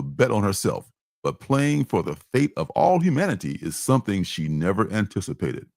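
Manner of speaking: steady, measured blurb reading, some phrases slowed; blurb read aloud. Acted. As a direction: read it like a book jacket pitch. Reads the publisher's blurb.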